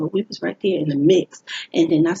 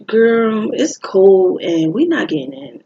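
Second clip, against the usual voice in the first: louder, slow and fed up, shivering outside; fed-up complaint; 3 semitones higher, 5 dB louder, slower than usual. Retold or imitated. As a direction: complain loudly that it's too cold to wait. Friend complains outside club.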